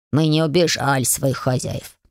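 low, slow little-spirit voices; two brothers asking in unison; lightly voiced house spirits. A narrator's reading. House spirits asking the girl to feed them, low and slow.

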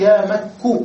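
يا مك with the final كاف said with a clear u vowel, ya Makku; clipped vocative demo. Shown as a demonstration. Teacher showing pupils يا مك with a damma on the كاف. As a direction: drop the end and say يا مك with damma on the كاف, slowly. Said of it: "بضم الكاف".

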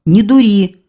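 put-on a boy scolding a drunk soldier; firm rebuke. A narrator's reading. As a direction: tell him off firmly. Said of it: "Я сказал".

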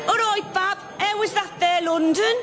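put-on high-pitched Black Country accent; Black Country local. Local greeting Shakespeare home from London, broad Black Country accent. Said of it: "transcript of one such conversation".

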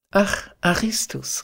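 put-on a girl thrilled to see an old friend; delighted cry. A narrator's reading. Phyllis spotting Aristus, crying out delighted. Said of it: "rief das Mädchen ganz entzückt".

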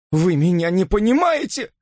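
high anguished cry. A narrator's reading. Robert cries out to Elisa, high and pleading. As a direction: cry out to be understood. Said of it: "вскричал он".

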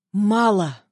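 barked. Acted. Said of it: "рявкнул он".

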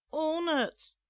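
put-on high, loud childish jeer; taunting child. Little girl taunts the old man, loud childish jeer. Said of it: "zag ze weer".

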